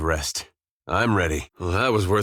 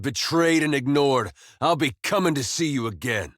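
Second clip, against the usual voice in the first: higher-pitched defiance, not shouted; defiant challenge; 4 semitones higher than usual. Acted. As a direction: demand to be heard, then vow a reckoning. Calls god back, vows return.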